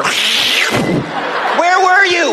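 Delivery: high, slow, shrill-pitched motherly shriek; mother yelling at son sneaking in late; mom shrieking. Retold or imitated. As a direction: shriek it like a panicked mom pouncing. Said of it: "she was on me like a panther".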